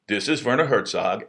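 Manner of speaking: lightly voiced German accent. German director starting his phone introduction over, German accent. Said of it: "he just started over".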